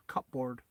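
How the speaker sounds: "cupboard" as two full words, cup-board; soft "cupboard" with audible P and full "board"; every letter pronounced. Shown as a demonstration. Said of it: "pronounce every letter".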